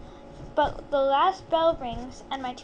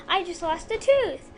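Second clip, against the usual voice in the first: mild shout; 2 semitones higher, 4 dB louder than usual. Acted. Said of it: "I shout".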